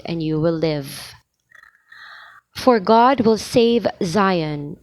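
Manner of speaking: measured church lector voice; psalm reading. Shown as a demonstration. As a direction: proclaim the psalm with reverence. Reads responsorial psalm aloud.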